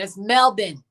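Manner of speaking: "Melbourne" said Aussie-style as MEL-bin; Aussie pronunciation. Shown as a demonstration. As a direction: swallow the end of "Melbourne" to "bin". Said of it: "not Melbourne".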